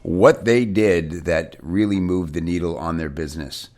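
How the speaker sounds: upbeat announcer welcome with music; bright podcast host opening; radio host voice. Acted.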